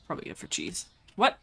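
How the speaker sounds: normal talking voice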